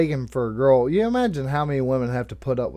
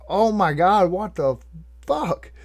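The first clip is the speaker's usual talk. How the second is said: stunned; 2 semitones higher than usual. Retold or imitated. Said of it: "I'm just stunned".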